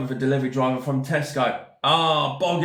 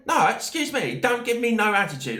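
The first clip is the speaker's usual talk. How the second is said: higher, firm put-down; retold firm telling-off; 7 semitones higher than usual. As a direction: shut down her attitude firmly.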